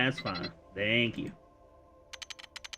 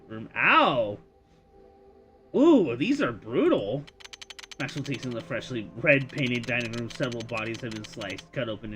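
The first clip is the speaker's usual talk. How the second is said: story narration. A narrator's reading. Game master scene narration.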